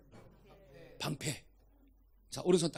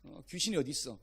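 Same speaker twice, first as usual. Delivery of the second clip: lower, softer scoffing of a sceptic; mock sceptic's offhand denial; dismissive doubter; 3 semitones lower, 6 dB quieter than usual. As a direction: brush it off as nonsense. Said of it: "귀신의 존재를 인정하지 않는 거예요".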